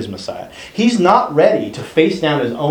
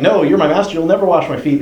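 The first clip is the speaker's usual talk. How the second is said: loyal Peter; 4 semitones higher than usual. Acted. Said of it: "trying to be loyal".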